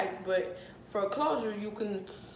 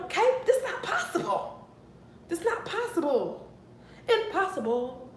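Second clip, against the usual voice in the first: laughing disbelief; 8 semitones higher than usual. Real, not acted. Disbelief at the hair tracks.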